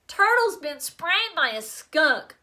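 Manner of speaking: pinched nose voice; holding nose. Acted. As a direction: talk with nose held shut. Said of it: "They all sounded as if they had colds".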